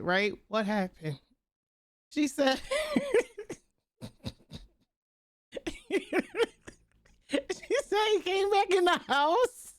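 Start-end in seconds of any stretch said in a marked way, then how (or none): 2.1-9.8 laughing through the words, pitched up; can barely get it out for laughing. Real, not acted. Streamer retelling granddad story, laughing hard. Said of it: "we dying laughing".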